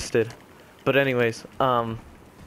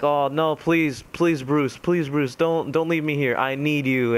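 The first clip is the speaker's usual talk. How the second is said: mildly acted plea, pitched higher; pleading; 3 semitones higher than usual. Joker begs Bruce not to leave him trapped, pleading. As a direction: lightly mimic someone begging not to be abandoned. Joker begging Batman to stay.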